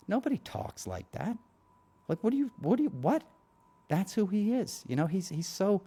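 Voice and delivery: high-pitched disbelief, voice shooting up; can't believe what you're hearing, pitch climbing; incredulous outrage. Real, not acted. Outraged rant about Trump's talk.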